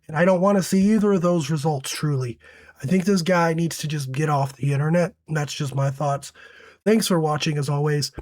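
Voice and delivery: hoarse from a sore throat; raspy, sick voice. Real, not acted. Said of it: "Apologies for the voice".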